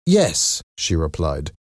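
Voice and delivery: high-pitched landlady's reply. A narrator's reading. Landlady directing a visitor, high-pitched. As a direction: answer in a high, lifted voice.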